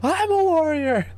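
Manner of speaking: slow, high, stretched-out battle cry; booming defiant gladiator. Retold or imitated. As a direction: shout it like a rallying fan. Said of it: "And they're like".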